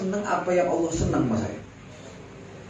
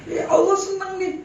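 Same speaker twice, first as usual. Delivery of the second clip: contented sick man; 9 semitones higher than usual. Retold or imitated. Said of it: "kata Ibrahim bin Hussein".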